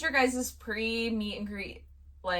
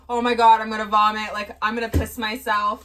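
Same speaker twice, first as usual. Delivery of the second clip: loud mock panic, pitch barely raised; retold panic, strong on the opening; imitated freak-out; 5 dB louder than usual. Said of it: "Kiki was freaking out".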